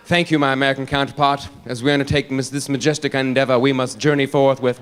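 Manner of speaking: stately mock English accent; Tony Blair. Prime minister answering his American counterpart, pompous English accent. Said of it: "he's all English".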